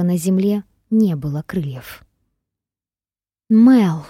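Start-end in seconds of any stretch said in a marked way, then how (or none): 3.5-4.0 startled cry. Acted. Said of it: "пробормотала она с облегчением и испугом".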